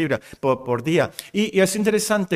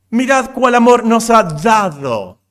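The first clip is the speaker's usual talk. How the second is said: louder, slow, weighty; emphatic proclamation; 5 semitones higher, 7 dB louder than usual. Real, not acted. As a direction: declare it with awe. Repeating the verse in awe.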